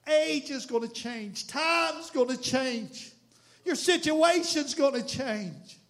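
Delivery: each phrase drawn out slowly; slow solemn warning. Real, not acted. Preacher warning the congregation, slow and solemn. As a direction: lean on every word, slow.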